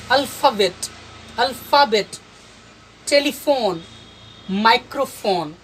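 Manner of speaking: words like एटमॉस्फेयर separately, ph as f; pronunciation demo. Shown as a demonstration. Teacher giving examples of ph read as f, pronunciation demo. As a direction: model पैराग्राफ and टेलीफोन word by word, clear f. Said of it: "पीएच को हम फ कहेंगे".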